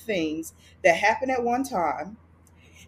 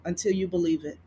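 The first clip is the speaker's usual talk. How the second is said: gently; 3 semitones lower, faster than usual. Retold or imitated. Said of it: "it said very gently".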